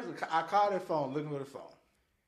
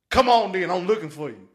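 mild mock threat; 10 dB louder than usual. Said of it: "it started off with saying".

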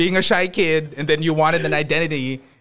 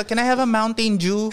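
put-on American accent; 6 semitones higher than usual. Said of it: "sabi ko".

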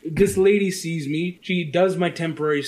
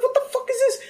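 high, exasperated cry of disbelief; exasperated outburst; faster than usual. Retold or imitated. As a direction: throw up your hands at the absurd wait. Retold outrage at DMV wait.

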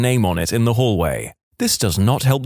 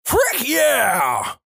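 high imitated yell; mock yell; 13 semitones higher than usual. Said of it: "he yells".

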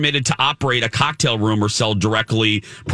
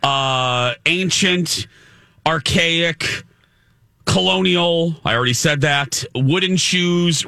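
mocking, drawn-out list; 4 semitones higher than usual. Real, not acted. Mocking list of antiquated liquor laws.

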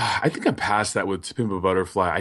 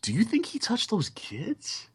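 questioning tone. Retold or imitated. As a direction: ask it as a real question, rising. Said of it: "So what if he's saying".

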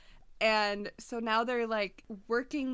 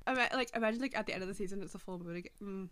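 blubbering. Real, not acted. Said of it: "I'm crying".

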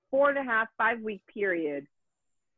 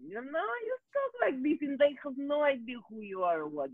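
a light, breathy-sounding put-on phone voice, pitched up; a hint of a sultry phone persona; phone sex voice; 9 semitones higher than usual. Shown as a demonstration. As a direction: purr it sweetly like a sex line operator. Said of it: "you talk like this for them".

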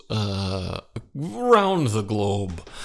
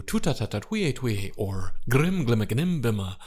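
vocal warm-up sounds. Shown as a demonstration. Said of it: "you could also do a few".

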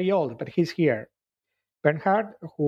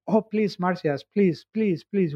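kind pleading; 4 semitones higher than usual. Acted. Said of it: "So they ask kindly".

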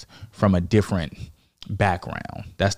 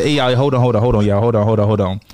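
calling out to stop them; 5 dB louder, faster than usual. Retold or imitated. Stopping friends mid-scene.

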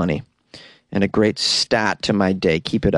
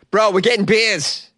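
higher and slower, stretching "getting"; hyped promise; 10 semitones higher, slower than usual. Real, not acted. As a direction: sell it like the best plan ever. Repeats promise with extra gusto.

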